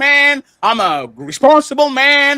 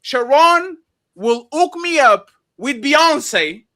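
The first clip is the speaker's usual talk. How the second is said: usual speaking voice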